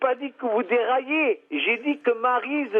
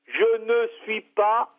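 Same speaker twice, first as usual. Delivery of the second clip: "Je ne suis pas" slowly, word by word; slow, deliberate, separated words on "Je ne suis pas"; exasperated repeat; slower than usual. Real, not acted. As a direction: spell out "Je ne suis pas" for someone not getting it.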